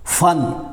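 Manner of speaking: फन said as "fan", starting with f; careful "fun"-like फन with an f; nukta f sound. Shown as a demonstration. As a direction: open फन with lip-to-teeth f. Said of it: "अभी हमने इसका लिख दिया".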